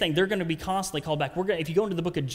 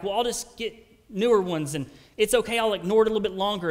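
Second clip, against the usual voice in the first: lightly mocked excuse, higher and quickening; self-excusing; 4 semitones higher, 4 dB louder than usual. Preacher mimicking someone whose pants don't fit, lightly self-excusing. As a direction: brush it off in a raised, hurrying voice.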